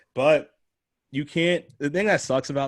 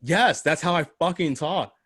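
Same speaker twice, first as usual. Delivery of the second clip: defiant; 6 semitones higher, 5 dB louder, slower than usual. Retold or imitated. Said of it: "And I'm just like".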